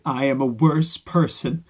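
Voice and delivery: slow, deadpan mock of a solemn line; a hint of fake sincerity; mock sincere quote. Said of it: "you're not selling it".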